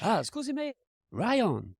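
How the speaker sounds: high mock Asian accent; stereotypical Asian accent. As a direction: put on a cheesy Asian accent. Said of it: "That was my Asian accent".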